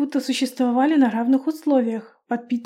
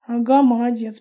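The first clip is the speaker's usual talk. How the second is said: usual speaking voice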